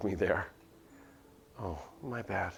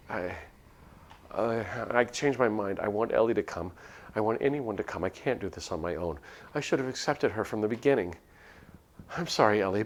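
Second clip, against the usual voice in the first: panic; 2 semitones higher, 3 dB louder than usual. Acted. Panic in the hallway.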